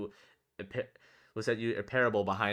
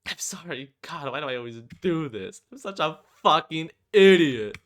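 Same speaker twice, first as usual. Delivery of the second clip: put-on girl blaming herself while crying; crying, self-hating; 6 semitones higher, 10 dB louder than usual. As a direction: berate yourself through tears. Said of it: "she starts crying".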